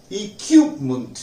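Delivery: इक्विपमेंट with the qui syllable hit; stress on QUI. Shown as a demonstration. Teacher showing students where to stress. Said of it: "क्यू पर जोर लगाए".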